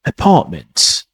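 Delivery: apartment said slowly in an American accent; a light American apartment. Shown as a demonstration. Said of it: "You might hear in American".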